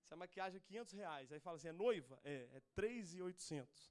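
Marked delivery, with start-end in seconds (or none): 1.7-2.1 mock surprise. Vendedora pergunta se é noiva.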